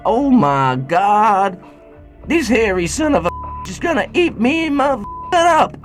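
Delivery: very high, hammed-up panic; terrified little nugget. Storyteller voicing the nugget about to be eaten, high mock panic. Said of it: "Little Nuggies inside was so scared".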